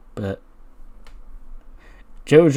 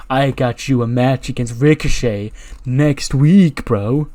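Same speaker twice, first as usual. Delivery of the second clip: Riddle voice. Retold or imitated. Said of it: "He goes".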